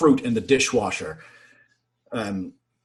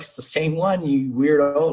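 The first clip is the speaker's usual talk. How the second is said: higher-pitched imitated comeback; mock exasperated retort; 4 semitones higher than usual. Shipmates correcting the furious sailor, high teasing retort. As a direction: answer back high and dismissive.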